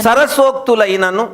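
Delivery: బూతులైనను drawn out slowly, rising at the end; slow emphatic repeat. Shown as a demonstration. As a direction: spell out బూతులైనను for the reader, slow with a lift. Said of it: "మళ్ళీ చదువు". (నెమ్మదిగా నొక్కి చెప్పడం)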